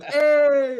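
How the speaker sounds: very high, loud holler; yelling back. Retold or imitated. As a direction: yell it back even harder. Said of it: "and then I yell back".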